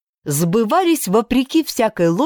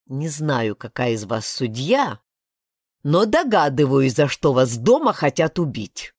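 lower, mildly gloomy; gloomy snort; 3 semitones lower than usual. Acted. Blak gloomily mocking the judge, lower. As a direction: say it darkly with a dry snort. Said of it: "мрачно хмыкнул Блак".

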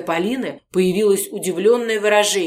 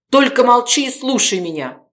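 higher, louder order; commanding shout; 6 semitones higher, 5 dB louder than usual. Acted. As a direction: make her obey. Gorodetsky commanding Polina.

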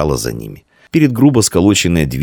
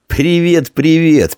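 high teasing copy of the greeting; mocking mimicry; 12 semitones higher, 3 dB louder, much slower than usual. A narrator's reading. Blacksmith's son mocks the boys' greeting, high teasing. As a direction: mimic the boys' hello to mock them. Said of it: "передразнил мальчиков".

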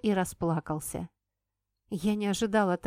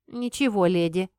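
put-on rude boy; 5 dB louder than usual. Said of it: "грубо отозвался он".

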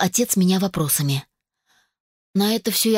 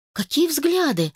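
puzzled cut-in; 8 semitones higher than usual. A narrator's reading. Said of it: "вмешалась я".

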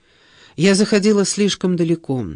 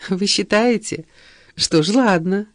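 mildly amused, slightly raised voice; light laughing reply; 4 semitones higher than usual. A narrator's reading. Sheba accepting the blouse compliment, lightly amused. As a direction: give in with a touch of amusement. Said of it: "рассмеялась Шеба".

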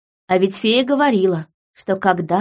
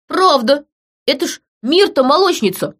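sudden excited outburst, higher and louder; blurted out; 7 semitones higher, 4 dB louder than usual. A narrator's reading. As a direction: blurt it out at once. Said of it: "выпалил вдруг какой-то мужичок". (выпалил взволнованно)

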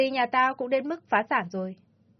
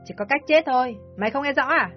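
raised, insistent villain voice; harsh demand; 3 semitones higher than usual. Acted. Ly insisting the mother must die, harsh. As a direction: press her without mercy.

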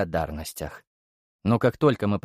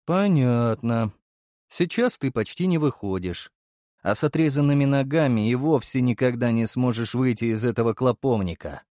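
indifferent. Acted. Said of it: "равнодушно бросил я".

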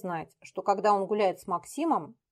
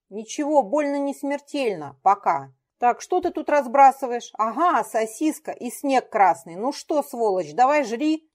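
menacing; 4 semitones higher, 6 dB louder than usual. Acted. Дмитрий threatens poisoner.

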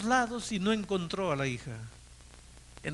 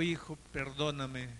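tearful plea; 4 semitones lower, 7 dB quieter than usual. Retold or imitated. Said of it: "lo abrazó llorando".

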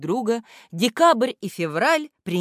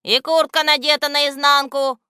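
letter Ya; 11 semitones higher, 6 dB louder than usual. A narrator's reading. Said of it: "вступила в разговор буква Я".

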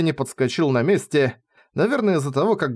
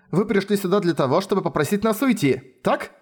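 composed, higher-pitched questioning; unruffled; 6 semitones higher than usual. A narrator's reading. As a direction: coolly put it to them. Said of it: "невозмутимо сказала она". (невозмутимо)

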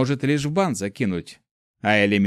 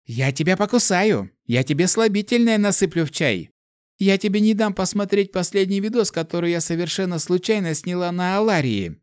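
squealing threats; 7 semitones higher than usual. Acted. Girl threatens while spanked.

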